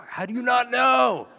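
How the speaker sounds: high, full-volume mock yell; hammed-up freaked-out husband yelling; exasperated shout. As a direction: shout back in baffled disbelief. Acted quarrel, husband freaking out.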